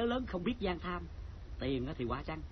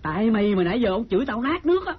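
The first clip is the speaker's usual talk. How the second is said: indignant complaint; 2 semitones higher, 7 dB louder than usual. Acted. Guard blaming the visitor for his scolding, indignant. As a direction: complain loudly, voice climbing.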